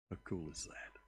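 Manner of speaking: a soft, awed whisper. Real, not acted. The preacher whispering his wonder to the congregation.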